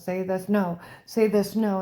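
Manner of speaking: sharp loud order; shouted command. Retold or imitated. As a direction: bark the order. Retells torturers' commands.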